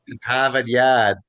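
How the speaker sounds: Boston accent with dropped r's; imitated thick Boston accent. Shown as a demonstration. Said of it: "The Boston accent?".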